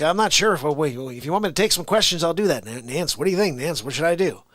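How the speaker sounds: lightly voiced folksy politician, unsure of himself; halting start, then rushed appeals for help; Joe Biden. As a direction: do a befuddled elder-statesman impression. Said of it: "a good Joe Biden impression".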